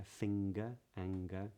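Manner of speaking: "finger" and "anger" with a hard g after ng; "finger" as fing-ger, g clearly spoken; modern british accent. Shown as a demonstration. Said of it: "with a hard G".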